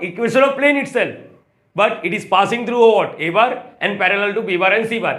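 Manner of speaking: slow, drawn-out dictating pace; slow dictation. Shown as a demonstration. Teacher dictating the definition slowly to students. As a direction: spell it out slowly as you write.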